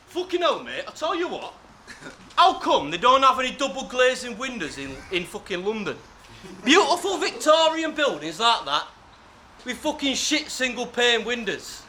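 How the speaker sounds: lightly put-on British accent, half-laughing; a hammed-up British bloke moaning about windows; mock British accent. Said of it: "to practice that accent".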